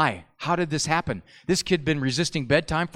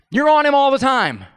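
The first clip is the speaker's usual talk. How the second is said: mocking loud echo; 8 semitones higher, 7 dB louder than usual. Mocking the parent's complaint.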